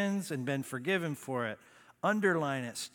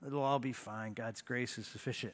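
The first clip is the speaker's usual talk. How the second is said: low, quiet self-excusing murmur; talking to yourself; 5 semitones lower, 7 dB quieter than usual. Acted. Student excusing cheating to himself, quiet self-talk. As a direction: softly reassure yourself, as if nobody hears. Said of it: "you say to yourself".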